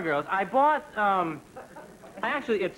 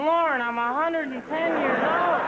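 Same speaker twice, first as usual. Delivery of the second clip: a higher, lightly put-on old dog voice; tired old dog; 9 semitones higher than usual. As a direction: let the old dog plead with the owner, weary. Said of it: "Duke's going".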